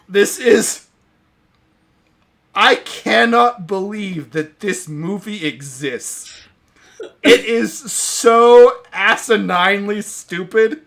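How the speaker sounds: loud, high, slow laughing incredulity; laughing disbelief. Real, not acted. Reacting to the absurd ending with real laughing disbelief.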